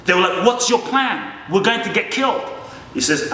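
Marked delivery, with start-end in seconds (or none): 0.4-2.4 frightened villagers. Retold or imitated. Frightened villagers voiced in story.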